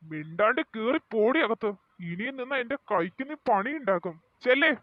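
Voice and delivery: loud, sharp order to go inside; angry command. Acted. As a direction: bark her back into her room.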